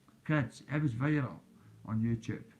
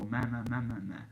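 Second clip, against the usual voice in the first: mocking meh. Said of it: "people on YouTube go".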